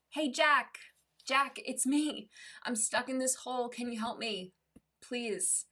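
high call from below, softening toward the end; mock shout. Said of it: "the man shouts up".

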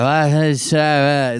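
imitated groggy drunk noises; mock a drunk friend half waking with slurred nonsense sounds; drunken noises. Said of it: "like, making noises and shit".

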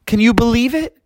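put-on thrilled high-pitched kid voice; Froggy. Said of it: "He was yelling".

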